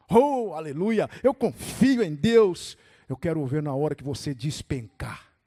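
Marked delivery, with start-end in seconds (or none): 0.1-2.8 slow, mock-devout exclaiming; showy, drawn-out praise; easy confident boast. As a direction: proclaim faith expansively from safe ground. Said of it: "Quando você tá lá em cima, terra firme".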